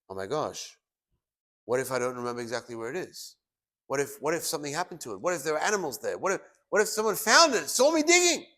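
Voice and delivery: worried muttering rising to a high, loud panic; building panic. Acted. Brother who buried his gold, frets about it, growing panic. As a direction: let the fear climb with each what-if. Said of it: "And he's freaking out".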